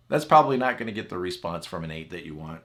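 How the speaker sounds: ordinary talk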